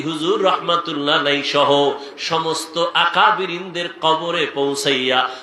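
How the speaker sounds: melodic supplication with a long-held final word; intoned sermon prayer. Real, not acted. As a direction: plead to God in a lilting chant.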